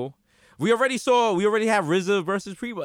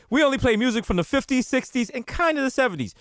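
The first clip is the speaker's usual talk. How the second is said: higher-pitched mock station promo; radio jingle; 7 semitones higher than usual. Imitating oldies station's slogan, high promo voice. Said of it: "I believe their jingle was".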